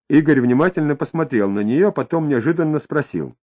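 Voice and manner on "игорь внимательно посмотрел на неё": ordinary delivery, nothing marked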